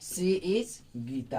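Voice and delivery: slow dictation. Shown as a demonstration. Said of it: "यहाँ पे क्या हो जाएगा आपका".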